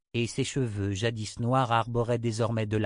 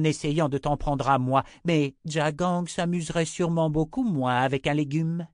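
higher-pitched, taunting witch voice; menacing witch; 5 semitones higher than usual. Acted. Six warning the mother inquisitor, menacing. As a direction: taunt with a light threat.

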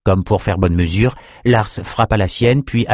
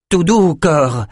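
higher-pitched, tentative appeasing; hesitant; 8 semitones higher, 3 dB louder, slower than usual. A narrator's reading. Amos hesitantly tries to calm the violent captain, tentative. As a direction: try cautiously to calm him. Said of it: "hésitant".

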